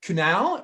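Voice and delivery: Kunal with a short "a" as in "pal", questioning; trial pronunciation. Shown as a demonstration. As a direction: try "Kunal" as koo-NAL. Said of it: "or is it Kunal or Kunal".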